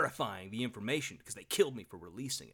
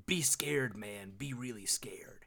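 sinks softer into a slow mock whisper; mock spooky warning; 5 semitones lower, 6 dB quieter, slower than usual. Host mimicking John's vague warning to Noche, mock spooky whisper. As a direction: spook them like a campfire tale. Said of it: "Just basically like".

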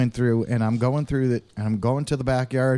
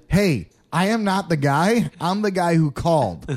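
placating; 4 semitones higher than usual. Retold or imitated. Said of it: "this is what I said".

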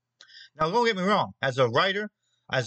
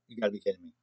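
low, soft, disbelieving mutter; muttered disbelief; 6 semitones lower, 6 dB quieter, much faster than usual. Retold or imitated. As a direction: say it under your breath, stunned. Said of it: "I'd be like".

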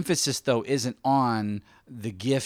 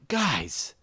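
pleading, earnest voice, pitched a little higher; God; 4 semitones higher than usual. Acted. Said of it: "I feel like God is saying".

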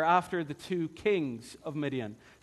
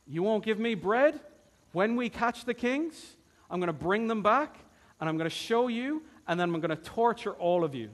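angry threat; 4 semitones higher than usual. Retold or imitated. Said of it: "pretty angry".

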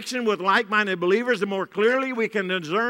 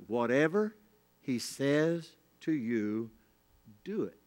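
Mary's gentle command; 6 semitones lower, 7 dB quieter, slower than usual. Retold or imitated. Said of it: "said in a, one of the most amazing".

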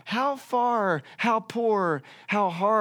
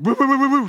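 rapid, loud mock barking, pitched up; imitated dog barking; 7 semitones higher, 8 dB louder, faster than usual.

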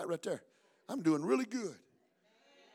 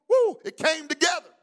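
joyful whoop; 5 semitones higher than usual. Real, not acted. Preacher exults at climax.

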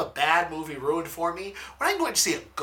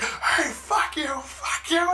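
high, slow jeering swear; mock angry friends; slower than usual. Her friends swearing at the group, high jeering. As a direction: throw insults back. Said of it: "her friends start like".

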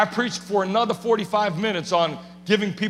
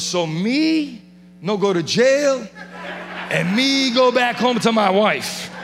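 laughing; 3 dB louder, slower than usual. Retold or imitated. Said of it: "what I really wanted to tell him".

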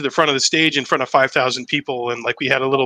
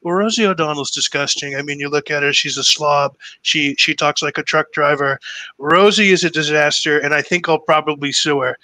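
lightly voiced politician impression; Donald Trump. Comic quotes Trump insulting Rosie on camera, light Trump impression. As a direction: imitate a politician's dismissive tirade. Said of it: "and he went".

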